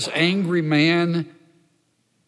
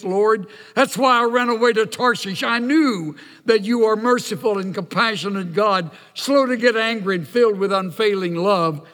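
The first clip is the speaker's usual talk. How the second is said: angry complaint; 4 semitones higher than usual. Acted. Preacher voicing angry Jonah to God.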